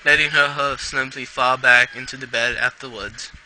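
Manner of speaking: story read in an attempted British accent. Reader narrating a pony story for listeners, attempted British accent. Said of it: "I read in a British accent".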